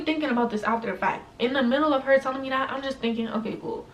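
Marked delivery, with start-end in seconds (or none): 3.3-3.9 inner thought. Retold or imitated. Inner thought while listening.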